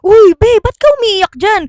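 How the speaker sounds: high loud mock-worried call. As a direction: call over to the crying friend. Friend asks crying classmate.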